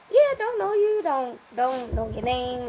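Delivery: mock dismissive. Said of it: "I was like".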